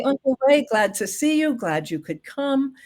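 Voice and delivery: kindly example greeting; gentle greeting. Shown as a demonstration. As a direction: welcome the guest gently. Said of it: "just very gently say".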